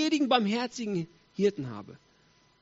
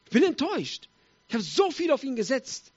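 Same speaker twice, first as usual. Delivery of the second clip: raised, mock-aggrieved voice; disappointed complaint; 4 semitones higher than usual. Let-down people about their politician, aggrieved. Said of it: "wo wir sagen".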